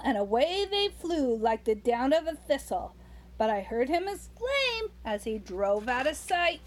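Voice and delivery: put-on rhythmic read-aloud to a child; lilting Christmas poem reading; storybook poem reading. A narrator's reading. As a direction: read the verse like a bedtime story.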